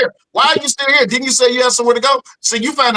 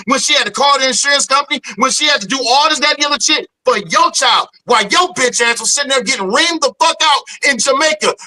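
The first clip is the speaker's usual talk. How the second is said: heated, shouting rant; yelling, worked up at him; angry rant. Real, not acted. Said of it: "You're emotional, man".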